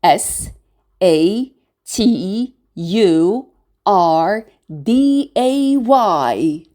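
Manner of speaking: S A T U R D A Y, slowly, letter by letter; S, A, T, U, R, D, A, Y as separate letter names; spelled letter by letter. Shown as a demonstration. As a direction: spell out S A T U R D A Y with gaps between letters. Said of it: "We spell it as".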